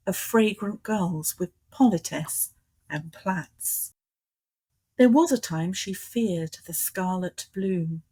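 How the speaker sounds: measured poetry reading, pausing after each line; poem recital. Acted. Poet reads her autobiographical poem on request to the host, measured recital. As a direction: recite it in even, metred phrases with deliberate breaks.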